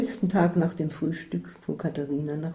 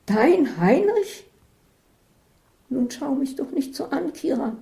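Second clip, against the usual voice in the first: teasing disbelief, then amused; 9 semitones higher than usual. Acted. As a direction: tease her in disbelief. Katharina laughing in disbelief.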